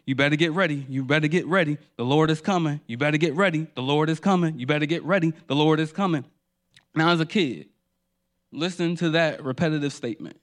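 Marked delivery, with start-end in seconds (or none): 0.1-6.3 lightly imitated deacon, repeating insistently; scary deacon. Deacon warning the church to get ready, mildly scary voice. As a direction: chant the warning over and over like a deacon. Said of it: "with his voice sounding in the way that it was, it was, it was scary".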